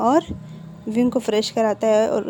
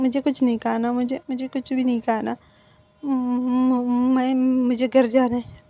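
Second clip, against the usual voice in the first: tearful refusal. Acted. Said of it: "आंखों से आंसू आ रहे".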